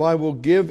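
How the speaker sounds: "give" stressed, voice rising on "give"; emphatic give. Shown as a demonstration. Preacher explaining the verse, stressing "give". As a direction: lean hard on "give". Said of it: "is emphatic".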